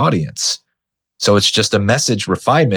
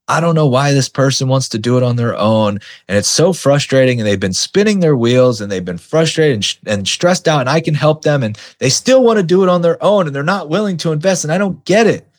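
mock frustrated coach; 5 semitones higher than usual. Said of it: "coaches will sit there and they'll talk about".

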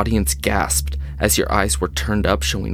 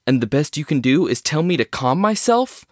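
exasperated; 5 semitones higher than usual. Acted. Anderson exasperated, arguing with Trenton.

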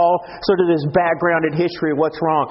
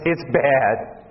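laughing; 3 semitones lower than usual. Real, not acted. Laughs at own point.

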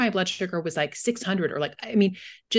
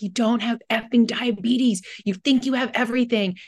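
imitating an exasperated telling-off, higher; mock going off on someone; not very nice; 5 semitones higher, 3 dB louder than usual. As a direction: act out a dismissive outburst, pitch raised. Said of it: "he was not very nice".

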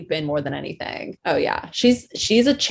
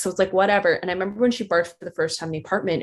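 ordinary talk

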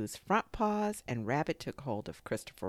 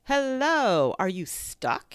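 loud, high hello falling into a question; surprised greeting; 8 semitones higher, 8 dB louder, slower than usual. A narrator's reading. Rabbit finding his friend Pooh stuck, surprised greeting.

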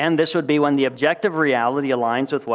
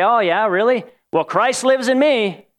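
smug one-upping; 5 semitones higher than usual. Retold or imitated. Answering a friend's promotion news, mock smug and higher. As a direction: top them with a self-satisfied brag. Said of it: "you're trying to one-up them".

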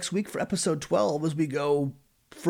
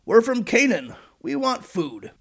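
pleading brothers; 8 semitones higher, 4 dB louder, slower than usual. Retold or imitated. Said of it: "they all replied in unison".

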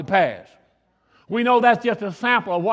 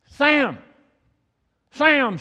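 calling out the window; 7 semitones higher than usual. Retold or imitated. Wife calling the neighbour from the window, mock shout. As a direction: call the neighbour across the yard. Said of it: "screamed at the top of her lungs".

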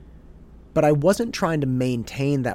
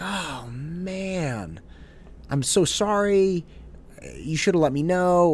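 bummed apology; 5 semitones higher, slower than usual. Retold or imitated. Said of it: "I was so bummed".

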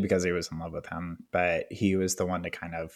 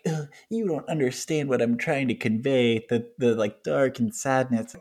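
mock whiny Louis; 5 semitones higher than usual. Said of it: "being like".

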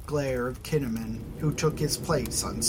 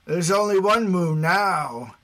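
laughing; 5 semitones higher, 6 dB louder than usual. Acted. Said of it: "The speaker laughed".

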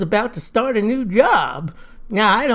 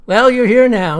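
louder, higher cheery welcome; cheerful; 4 semitones higher, 6 dB louder than usual. A narrator's reading. Don welcomes the quarrelling guests, cheerful. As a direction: brightly wave the complaint away. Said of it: "says Don cheerfully".

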